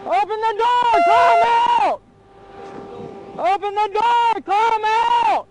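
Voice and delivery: shouted surrender demands. Real, not acted. Armed police stop.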